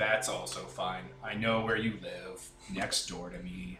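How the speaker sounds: low, slow, deadpan monotone. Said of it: "I went out of my way to make him monotone".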